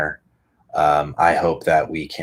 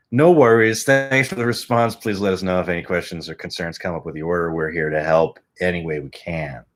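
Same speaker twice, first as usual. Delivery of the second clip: mock customer service. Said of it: "they respond back again".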